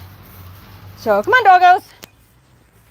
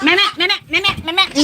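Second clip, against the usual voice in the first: a playful goat impression, meh meh; imitating goat bleats; 3 semitones higher, faster than usual. Farmer bleating back at her noisy goats, teasing goat impression.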